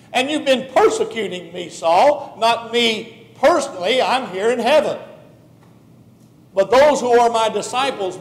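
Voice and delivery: lightly voiced Jesus, earnest and pressing; Jesus rebuking. Jesus confronts Saul on the Damascus road, earnest rebuke. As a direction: press him to see what he's done.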